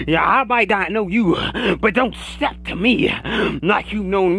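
rhythmic preacher cadence with audible gasps after phrases; church-style sermon rant; fired-up preaching. Real, not acted. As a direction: preach it hard, punctuating each phrase with a huffed breath. Preaches at full force.

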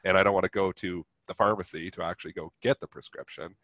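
stuffy nasal voice from a sinus infection; speaking through a blocked nose; nasally voice. Real, not acted. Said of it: "you have to ignore my nasally voice".

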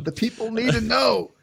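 lightly hammed-up proclamation, drawn out; mock self-importance. Mock-grand echo of reviewer.

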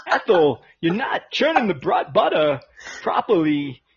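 lightly voiced Walken scolding; choppy Walken pauses; Christopher Walken impression. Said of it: "Christopher Walken as an Amish guy".

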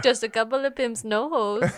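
light mock Kazakh accent; Borat. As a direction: deliver a film quote in a mock Kazakh accent. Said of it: "Borat's the one you do well".

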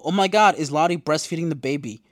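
loud, high gasp of disbelief; shocked outburst. Retold or imitated. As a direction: exclaim in scandalized shock. Reads out own shocked note.

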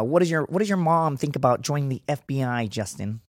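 a mild take on the FBI interviewer. Retold or imitated. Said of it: "that was how she sounded".

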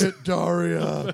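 shouting. Pretend. Mock shouted demand.

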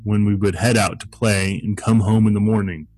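measured storytelling read; story narration. Acted. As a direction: read it like a spooky campfire tale. Reads a spooky story aloud.

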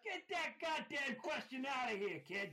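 hammed-up outrage at the question; mock tough guy. Cohost mocking the question, tough-guy Brooklyn rant.

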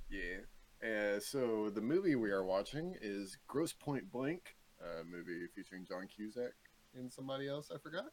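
measured host's closing announcement; composed outro delivery; podcast sign-off. Real, not acted. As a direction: read out next week's picks and sign off. Reads out podcast suggestions and sign-off.

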